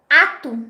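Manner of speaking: "ato" set apart by pauses; separated word part. Shown as a demonstration. Teacher giving the game's second piece, "ato" set apart. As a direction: say "ato" alone, without its first consonant. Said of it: "E a seguir eu disser".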